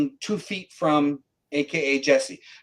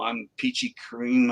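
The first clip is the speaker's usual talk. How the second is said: higher, slow, smug self-mockery; mock cocky; 8 semitones higher than usual. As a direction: play your overconfident younger self. Mocking own past cockiness.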